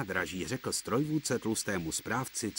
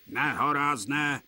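exclaiming; 5 semitones higher than usual. A narrator's reading. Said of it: "vykřikoval".

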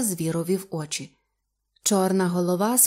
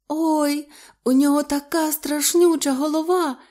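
high, sobbing-edged wail; tearful fright; 8 semitones higher, 4 dB louder than usual. Acted. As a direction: wail it through rising tears. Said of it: "заридала Любонька". (заплакано й злякано)

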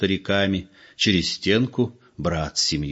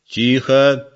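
sharp louder command; 5 semitones higher, 5 dB louder than usual. A narrator's reading. Old man silencing the room, sharp loud command. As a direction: bark it to silence them. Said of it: "скомандовал старик".

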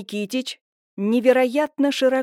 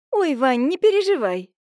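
higher, louder breezy brush-off; airy dismissive reassurance; 5 semitones higher, 5 dB louder than usual. A narrator's reading. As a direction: wave the worry away. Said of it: "отмахнулась та".

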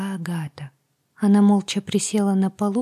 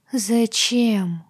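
howled; 4 semitones higher, 3 dB louder than usual. Acted. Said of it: "взвыла я".

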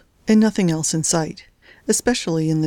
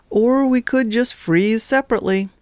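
sighing wry quip; 5 semitones higher than usual. Acted. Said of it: "he said with a sigh".

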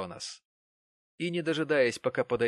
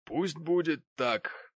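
very slow, higher, heavy resignation; old Martin; 5 semitones higher, slower than usual. A narrator's reading. Old Martin gives up on Mary, very slowly. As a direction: let it drop slowly, resigned.

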